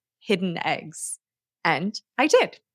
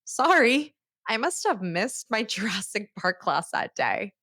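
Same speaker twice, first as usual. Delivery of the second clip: laughing it off. Retold or imitated. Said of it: "I just laughed and said".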